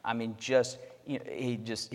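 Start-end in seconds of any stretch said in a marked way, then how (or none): none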